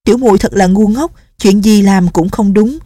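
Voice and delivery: scolding herself, then fretting over him; self-blaming young nun. Acted. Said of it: "rồi tự trách". (giọng cô gái cao, tự trách)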